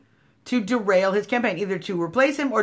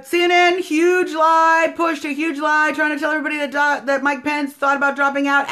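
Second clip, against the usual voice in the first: heated shout; 4 semitones higher than usual. Real, not acted. Railing at CNN over a lie, heated shout. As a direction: blast the network for lying.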